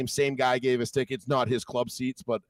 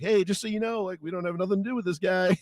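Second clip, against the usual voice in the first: mock bystanders; 6 semitones higher than usual. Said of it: "They're like".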